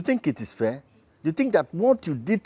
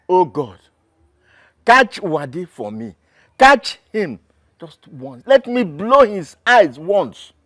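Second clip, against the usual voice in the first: loud furious prayer, slow at the end; vengeful prayer; 6 dB louder than usual.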